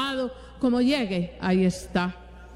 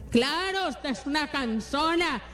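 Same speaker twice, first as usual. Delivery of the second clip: high mocking put-down, as the wrong answer; sarcastic brush-off; 4 semitones higher than usual. Preacher acting the wrong reply to a tired partner, mocking and high. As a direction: sneer it off as a tired spouse would. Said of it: "No, esa no es la forma".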